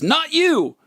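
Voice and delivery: high, jokey call-out with a laugh; mock announcer. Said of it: "Then he says".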